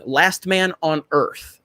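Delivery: slow, drawn-out Last Man on Earth, every word spaced; slow, deliberate repeat. Shown as a demonstration. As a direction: say the title slowly so it sticks. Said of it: "First episode".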